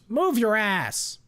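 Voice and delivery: loud, slow, high yell. A narrator's reading. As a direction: drag out the yell, impatient and rough. Bloody stranger yelling at him.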